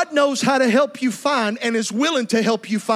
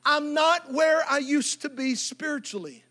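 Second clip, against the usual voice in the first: much softer inner thought; quiet realization; 8 dB quieter than usual. Retold or imitated. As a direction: murmur it to yourself.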